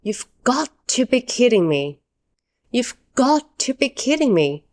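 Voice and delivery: emphatic, can't-believe-it complaint; strong disbelief. Shown as a demonstration. English teacher models a strong everyday complaint, in disbelief. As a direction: say it firmly, stressing GOT. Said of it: "This is a strong way to say".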